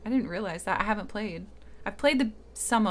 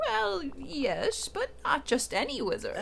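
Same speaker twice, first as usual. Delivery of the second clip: put-on Merlin old man voice; 4 semitones higher than usual. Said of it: "my old man voice".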